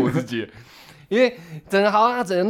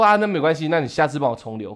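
breezy, careless. Retold or imitated. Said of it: "他就笑笑笑说".

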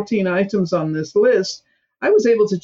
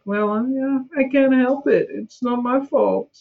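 mock whiny victim, a bit higher; whiny excuse voice; 6 semitones higher than usual. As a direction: imitate a self-pitying excuse-maker.

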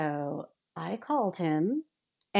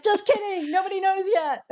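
teasing; 12 semitones higher, 3 dB louder than usual. Retold or imitated. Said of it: "And he's like".

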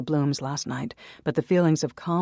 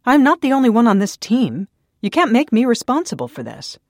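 higher, much louder furious protest; angry; 8 semitones higher, 9 dB louder than usual. A narrator's reading. Naomi refusing Daniel's blame, furious shout. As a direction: shout your defence at him. Naomi angrily defends herself.

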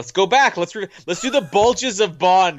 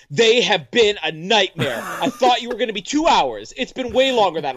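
slightly raised, complaining quote; exasperated wife; 3 semitones higher than usual. Retold or imitated. Husband retelling wife's complaint after recording, mildly exasperated. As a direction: lightly voice a fed-up wife. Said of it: "she's like".

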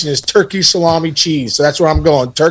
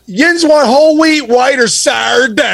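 much higher, slow Pittsburgh waitress through laughter; 8 semitones higher, slower than usual. Retold or imitated. Imitating the waitress asking the family about bread in a much higher, slow Pittsburgh accent. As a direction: stretch it out high like the Pittsburgh waitress. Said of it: "She's like".

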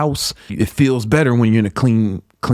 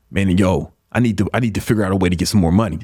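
quick, lower, businesslike resolve; determined G; 5 semitones lower, faster than usual. Acted. Host modeling the positive rephrase, determined. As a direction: say it fast like a go-getter with a plan. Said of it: "sound like a G who's ready".

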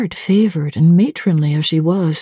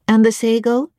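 a higher cook's voice; lightly voiced cook, brisk and higher; the cook calling Grace Poole down to dinner, higher; 5 semitones higher than usual. Cook asks.

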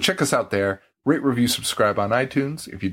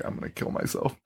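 whispered quote; 9 dB quieter than usual. Retold or imitated. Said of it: "that guy just was like".

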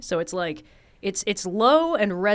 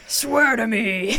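gravelly Batman voice; 3 dB louder, much slower than usual. Retold or imitated. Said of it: "the voice that you do to scare people".

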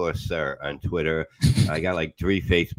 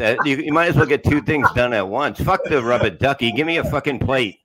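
mock bath request; 5 semitones higher, 5 dB louder than usual. Mock wife in bathtub kitchen.

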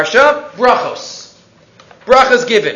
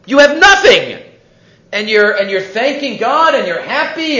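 amazed king. Acted. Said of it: "The king says".

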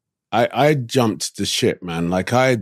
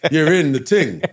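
London slang; 8 semitones higher than usual. Shown as a demonstration. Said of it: "start speaking like an American".

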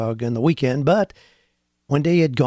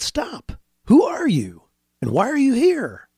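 guard's challenge; 9 semitones higher than usual. Acted. Unseen guard challenges walking rabbi.

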